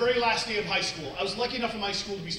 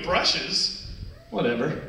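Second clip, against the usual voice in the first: put-on dismissive kid; 4 semitones lower, slower than usual. Acts kid scoffing at brushes.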